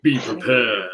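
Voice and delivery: breathy mock-ominous whisper. Warning Z before his question, whispered.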